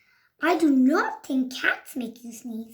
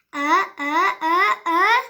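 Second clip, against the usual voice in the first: rising, louder pre-sneeze gasps; sneeze build-up; 4 semitones higher, 6 dB louder than usual. Acted. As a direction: build towards a big sneeze.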